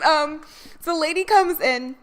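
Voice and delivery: ordinary talk, nothing marked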